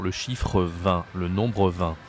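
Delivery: "Le chiffre vingt" said slowly and carefully, syllable by syllable; slow model word. Shown as a demonstration. Teacher modelling "vingt" slowly for the class. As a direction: spell it out slowly for learners. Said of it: "slow teaching model word".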